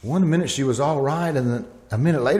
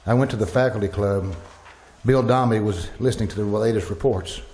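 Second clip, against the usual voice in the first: story narration. A narrator's reading. Professor recounting the plague to listeners, grave narration. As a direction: tell it like a stunned witness looking back.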